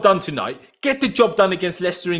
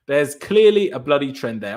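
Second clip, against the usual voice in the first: slow; 5 semitones lower than usual. Real, not acted. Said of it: "There's clearly a trend there".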